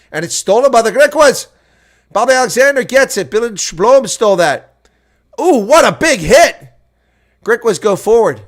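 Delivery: rising play-by-play yell over the action; excited commentary. Real, not acted. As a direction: shout the big hit with delight. Lineout steal, big hit.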